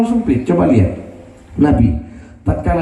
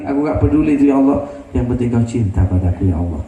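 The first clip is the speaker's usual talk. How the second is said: intimate prayer; 2 semitones lower than usual. Acted. The Prophet's tender prayer.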